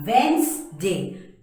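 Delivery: Wednesday slow as wenz-day; correct way. Shown as a demonstration. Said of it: "it is".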